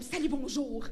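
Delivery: eager, bouncy greeting; enthusiastic hello. Retold or imitated. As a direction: greet like an excited friend. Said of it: "pas mal plus enthousiastes".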